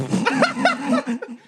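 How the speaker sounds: sudden high laugh; high burst of laughter. Real, not acted. Botched bottle opening, laughter.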